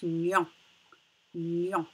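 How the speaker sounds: "nion" as one syllable, gn plus on; syllable demonstration. Shown as a demonstration. Teacher showing gn with on, "nion" repeated distinctly. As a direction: say "nion" twice, set apart. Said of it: "ça se prononce".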